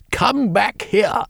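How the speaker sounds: high, slow outraged cry; furious mother. A narrator's reading. Mother yelling at her son to come back. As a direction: yell after him as he escapes.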